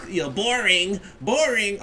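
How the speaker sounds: high, mock sing-song taunt. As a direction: tease like a bored child. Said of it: "He was like".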